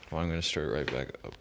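cold, fast delivery; talking while freezing; shivering. Real, not acted. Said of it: "My lips are freezing".

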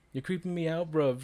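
imitating a friend. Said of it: "She's like".

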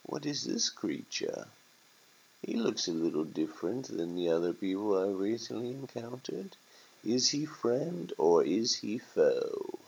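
a hint of a puzzled turkey, softly spoken; lightly voiced bird pondering, hushed; wondering turkey. Turkey sizing up a stranger, quietly wondering.

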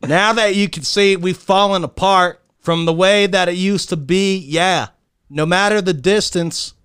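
milk every word like a tearful love ballad; hammed-up melodramatic reading. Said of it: "just read it regular".

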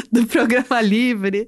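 laughing through the words; giggling as she says it. Real, not acted. Laughs while telling.

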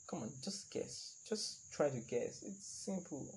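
soft unvoiced teasing whisper. Real, not acted. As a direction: whisper it slowly, coaxing. Teasing viewer to guess.

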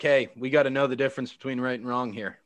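lightly voiced lecturing dad, low and soft; mock Tiger Woods. Dad sitting his kid down for a talk, lightly imitated. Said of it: "sat down by your, your dad, who's Tiger Woods".

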